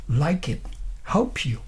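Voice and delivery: "Like it, help you" with each final consonant running into the next word; linked sounds. Shown as a demonstration. Teacher shows students the right linking sounds, linked "Like it, help you". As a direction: link "Like it" and "help you" smoothly. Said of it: "They are the right linking sounds".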